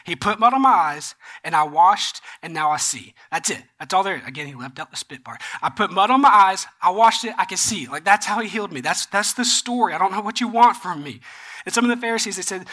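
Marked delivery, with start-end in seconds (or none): 0.0-4.2 curt retold summary, punched at the start; frustrated. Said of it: "you can kind of hear the frustration". 5.6-11.2 exasperated, insistent retold account; frustrated. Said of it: "you can kind of hear the frustration".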